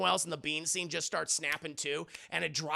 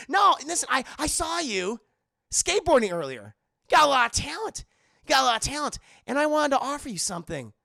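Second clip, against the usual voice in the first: higher, louder slick frat pitch; smarmy recruiter; 8 semitones higher, 6 dB louder, faster than usual. Retold or imitated. Brad pitching the fraternity to Max. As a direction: sell it like a smug frat boss.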